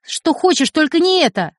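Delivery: put-on child begging his mother not to leave; desperate pleading. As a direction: plead as if losing everything. Boy begs his mother desperately.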